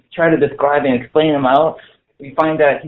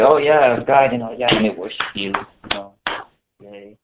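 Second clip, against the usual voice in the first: sarcastic; 3 semitones lower than usual. Acted. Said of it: "do you see the sarcasm in my voice".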